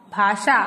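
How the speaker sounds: "भाषा" with sh, "bhaa-shaa"; correct pronunciation. Shown as a demonstration. Teacher naming the correct word, correctly pronounced. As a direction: make a clear sha in "भाषा". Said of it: "शुद्ध शब्द है".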